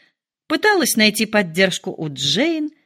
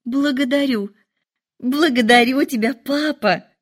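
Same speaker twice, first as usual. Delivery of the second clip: higher, bright-eyed thanks rising to papa; joyful exclaim; 5 semitones higher than usual. Acted. Daughter thanking father, exclaiming higher with delight. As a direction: gush gratitude, voice lifting. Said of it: "воскликнула Элизабет".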